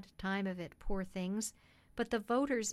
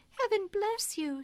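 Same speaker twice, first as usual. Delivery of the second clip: high, louder woman's voice; overwhelmed grateful mother; 10 semitones higher, 5 dB louder than usual. Acted. Woman thanking cabman before bursting into tears, high and fervent. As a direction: bless him with heartfelt gratitude.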